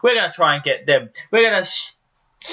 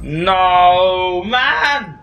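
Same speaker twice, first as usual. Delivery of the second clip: raging gamer; 2 semitones higher than usual. Real, not acted. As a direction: yell out in gaming frustration. Gamer loses kill, rages.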